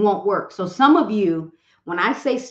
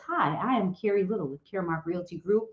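stiff scripted realtor pitch. Retold or imitated. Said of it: "Do you really talk like this?".

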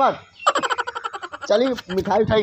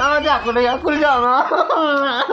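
giggling, stretched out slowly; teasing laughing demand; slower than usual. Acted. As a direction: laugh and drag the words. Child laughing, insisting.

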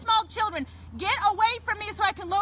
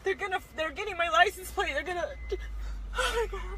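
crying panic; 4 dB quieter than usual. Real, not acted. Panicking, crying about license plate.

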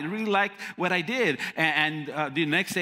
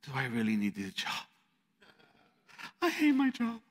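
softer, deflated inner voice; muttering to yourself, fed up; despairing thought; 3 semitones lower, 5 dB quieter than usual. Retold or imitated. Despairing inner thought after call.

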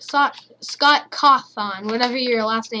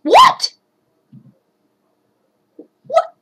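shocked shout; 7 dB louder than usual. Real, not acted. Shocked in game.

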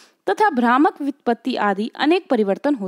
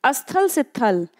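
slow, deliberate example; slower than usual. Shown as a demonstration. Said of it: "इसको ध्यान से देखते चलिएगा".

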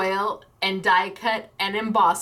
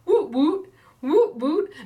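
cheering; 7 semitones higher, 4 dB louder, slower than usual. Real, not acted. Celebrating the free gift.

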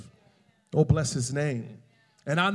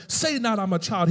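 quoted stern correction, mildly raised pitch; a touch of harshness, cut the excuse off; harsh rebuke; 4 semitones higher than usual. Retold or imitated. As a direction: retell a sharp command from God. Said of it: "why did you say it so harshly".

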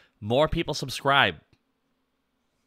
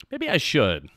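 little guy voice. Shown as a demonstration. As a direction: pop back up into the chibi voice. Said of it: "Maybe I should talk in it more".

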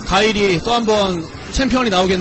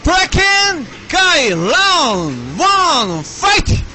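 slow shouted arcade announcer call; game announcer; 6 semitones higher, 3 dB louder, slower than usual. Retold or imitated. Calls round start like game.

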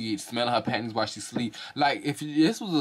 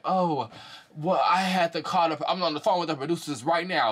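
mock high excuse voice; 5 semitones higher than usual. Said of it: "be like".

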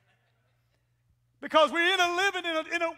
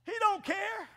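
sharp shout; 6 semitones higher, 4 dB quieter than usual. Real, not acted. Pastor warning parents about phones, sharp shout. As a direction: call it out to the parents.

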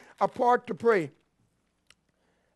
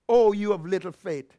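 lower, subdued reproach after the outburst; Jesus' reproach; 6 semitones lower than usual. Acted. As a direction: drop down into a disappointed rebuke. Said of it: "Jesus was basically saying".

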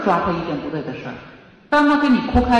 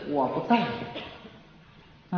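slow; 4 semitones lower, 9 dB quieter, much slower than usual. Shown as a demonstration. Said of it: "我给你一个态度".

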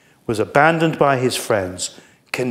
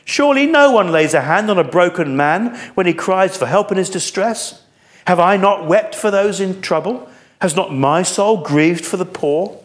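raised, aching plea; a broken man crying for help; lament; 5 semitones higher, 3 dB louder than usual. Acted. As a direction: plead with God, higher and louder. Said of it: "can you hear his lament?".

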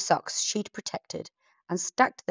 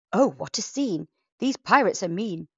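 in a huff; 2 semitones higher, 4 dB louder than usual. Acted. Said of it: "she said in a terrible huff".

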